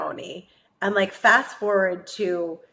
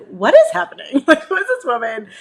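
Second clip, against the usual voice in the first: higher, louder incredulous question; acted bewilderment; 6 semitones higher, 5 dB louder than usual. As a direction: replay being completely baffled. Retold bewilderment at strange woman.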